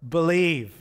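loud, slow, high-pitched emphatic refusal; dead-set doubter laying down his terms; emphatic defiant vow. Acted. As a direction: declare it forcefully, dragging out each key word. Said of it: "I don't know that he said it like that".

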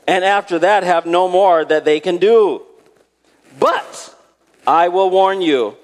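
high, ringing preacher's delivery; emphatic scripture reading. Acted. Preacher reads Christ's words to the congregation, emphatic. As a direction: proclaim the verse with weighty stresses.

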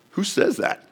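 breathless high whisper of disbelief; awed whisper. Acted. Centurion at the cross whispering in awe. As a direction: whisper it, stunned by what you heard. Centurion wonders at Jesus' words.

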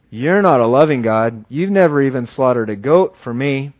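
a hint of a sullen son's complaint; resentful older son. Older son complaining to his father in the field, mild resentment. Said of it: "the older son standing out in the field saying".

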